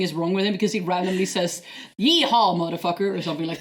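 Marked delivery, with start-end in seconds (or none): 2.0-3.1 a hint of cowboy accent; lightly mocked cowboy exclamation; imitated cowboy speak. Imitating malfunctioning Data's random outburst, light cowboy accent. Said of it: "starting to talk in cowboy speak".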